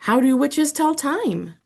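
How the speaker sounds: pumpkin skeleton asking in a high, odd voice; strange high-pitched voice. Acted. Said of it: "in a strange, high-pitched voice".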